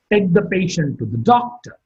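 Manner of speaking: "doctor" rises briefly, then falls; falling tone on doctor. Shown as a demonstration. Teacher showing learners an example command, falling tone on "doctor". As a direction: end the command with pitch dropping on "doctor". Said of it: "Doctor is marked with a falling tone".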